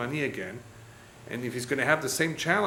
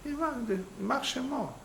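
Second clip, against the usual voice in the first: spitting curse; 9 semitones higher, 7 dB quieter than usual. Retold or imitated. Townspeople curse the dead man.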